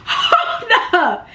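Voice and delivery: laughing disbelief. Retold or imitated. Reacting to accusation.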